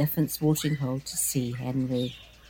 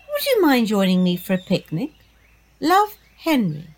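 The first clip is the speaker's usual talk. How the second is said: reading a note aloud; 2 semitones higher, 3 dB louder than usual. Acted. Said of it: "reading out loud".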